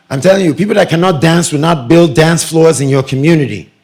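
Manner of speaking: lightly put-on Nigerian accent. Shown as a demonstration. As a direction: say "people that cannot dance" in a Nigerian accent. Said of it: "Let me bring my Nigerian accent".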